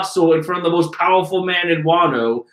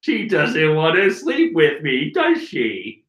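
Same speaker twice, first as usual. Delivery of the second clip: a hint of a drawn-out comic voice; lightly put-on, exaggerated villain musing; Jim Carrey; 2 semitones lower than usual. Villain doubting she wants him, lightly comic put-on voice. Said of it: "Why do I sound like Jim Carrey?".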